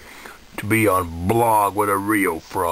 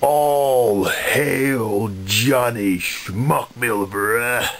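mock proclamation; much slower than usual. Mock proclamation of the new owner.

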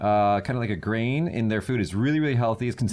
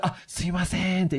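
higher polite voice; 6 semitones higher than usual. Retold or imitated. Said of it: "you get higher pitched".

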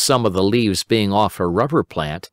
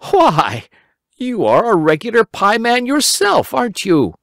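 put-on high, delighted boy voice; Simple Simon; 13 semitones higher, 3 dB louder than usual. A narrator's reading. Simon joking with Uncle Wiggily, high boyish voice. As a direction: tease him cheerfully.

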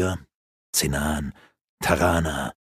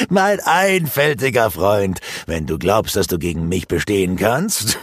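lightly voiced smug wizard; condescending sorcerer. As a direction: talk down to a fool. Rurak condescending.

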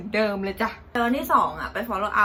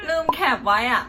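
laughing; 11 semitones higher than usual. Real, not acted. Forgot to screenshot questions.

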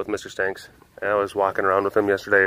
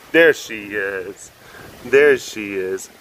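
tender greeting; 3 semitones lower, much slower than usual. Real, not acted. Greeting the pet as she wakes, slow and fond. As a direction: greet her slowly, fondly.

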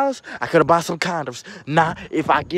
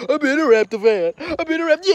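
indignant raised voice; 11 semitones higher, 6 dB louder than usual. Real, not acted. Rant claiming long-time fandom.

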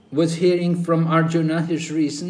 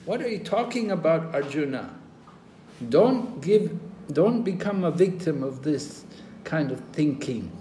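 higher, incredulous rebuke of Arjuna; Krishna chiding Arjuna, mildly indignant; Krishna scolding; 3 semitones higher than usual. Retold or imitated. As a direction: scold him like a disappointed teacher. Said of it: "Krishna said".

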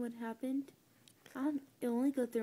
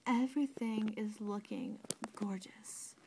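whispering; 6 dB quieter than usual. Real, not acted. Whispering while grooming pet.

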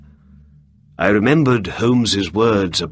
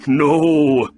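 amused refusal; 8 semitones higher, 6 dB louder than usual. Acted. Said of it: "The man laughed".

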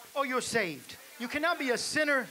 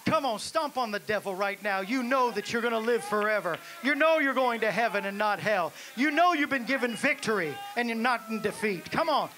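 louder rousing exhortation; preaching at full force; 5 dB louder than usual. Acted. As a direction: whip the congregation into stomping. Rousing congregation to stomp.

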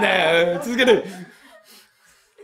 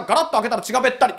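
brisk and blunt; much faster than usual. Shown as a demonstration. Landlord demonstrating how the tenant should tell it, brisk. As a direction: rattle it off fast, no spooky pauses. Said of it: "これでいいんだよ".

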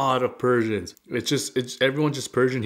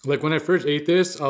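chewing between words; talking around food; mouth partly full; 3 semitones higher than usual. Real, not acted. Seen 2: Chewing before words; sandwich at mouth to 0.9s, then talking.

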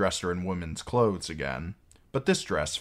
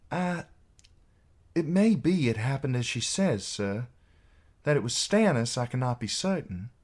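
put-on higher, halting young knight; tense lad; 7 semitones higher than usual. A narrator's reading. Young knight admitting doubt to his commander, tense. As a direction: concede it haltingly in a lifted voice. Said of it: "The lad tensed".

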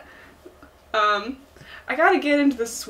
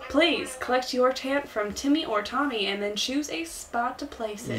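softer Southern fella giving instructions; Tom Nook; 6 dB quieter than usual. Acted. Sending islanders to collect tents, soft Southern accent. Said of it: "The Southern accent is supposed".

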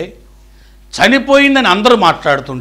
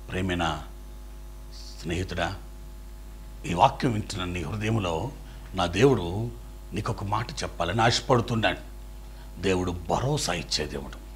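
soft, lower intimate plea; tender appeal; 9 semitones lower, 14 dB quieter than usual. Real, not acted. Preacher appealing to hurting listener, soft and intimate. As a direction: speak to one hurting friend.

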